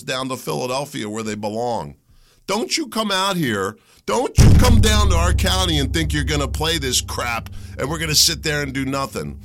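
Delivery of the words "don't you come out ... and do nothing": loud, heated warning to outsiders; furious rant voice; angry warning. Real, not acted. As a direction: jab it at them like a threat. Warning the protesters.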